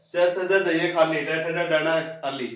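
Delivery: hurried rote row with ण खाली tacked on; run-together recitation. Shown as a demonstration. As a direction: rattle च, छ, ज, झ off as one string. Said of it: "इस प्रकार से नहीं बोलना आपको". (च, छ, ज, झ रटते हुए, एक जैसा)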